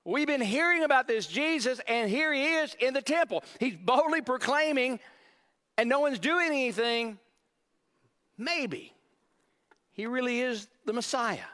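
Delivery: puzzled locals asking each other, then hushed; confused residents. Acted. Now, they're confused.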